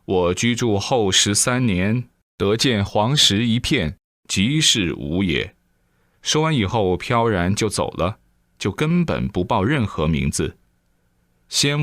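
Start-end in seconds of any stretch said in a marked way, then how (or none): 0.0-5.5 slow, measured chant of a verse; recited verse. Acted. Old immortal recites a verse to Zhang Liang, slow and measured. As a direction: intone it like an old sage's riddle. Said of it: "说了一首偈子".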